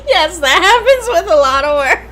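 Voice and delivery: put-on loud, high Cockney accent. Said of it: "Say it with a Cockney accent".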